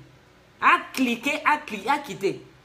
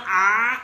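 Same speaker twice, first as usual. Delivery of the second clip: loud, drawn-out mock groan; mock-dismayed "ah"; 3 semitones lower, 6 dB louder than usual. Host mocking a writer afraid of change, mock-dismayed groan. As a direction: let out a long, loud "aah" in mockery.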